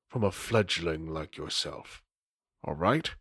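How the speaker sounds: low, soft, conspiratorial vampire; secretive Nosferatu dealer. Acted. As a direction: talk him down like a shady dealer. GM voices Lane rebuffing Paige.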